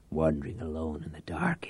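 low, soft whispered taunt; sly whisper. Acted. Reich whispers to Tate about a cover story. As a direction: whisper it knowingly.

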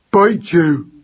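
put-on high, loud baby mouse war cry; yelling. A narrator's reading. Baby mouse threatens the cat, yelling. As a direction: yell a fierce little threat. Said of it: "yelled Magnus at the top of his voice".

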